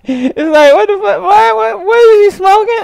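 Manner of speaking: high, disbelieving what-the; incredulous outrage. Real, not acted. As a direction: ask like it's absurd. Incredulous reaction.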